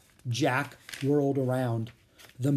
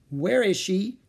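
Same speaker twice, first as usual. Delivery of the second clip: higher-pitched, mild worry; worried question; 7 semitones higher, 4 dB louder, slower than usual. Acted. Jack finding no sign of Peanut, worried. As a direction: lift the voice in puzzled concern.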